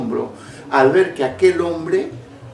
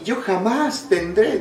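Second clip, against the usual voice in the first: imitating a scoffer, pitched up and drawn out; slow, higher-voiced mock vow; mock refusal; 6 semitones higher, slower than usual. Preacher mimicking people who scorn having such children, emphatic refusal.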